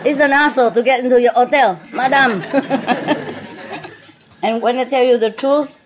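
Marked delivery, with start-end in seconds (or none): 0.0-2.4 "hassle" said as "asshole", H silent, a bit fast; quick French guest line, no H in "hassle"; dropped H. Retold or imitated. Retelling a French guest at the hotel, H dropped. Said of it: "they pronounce like asshole".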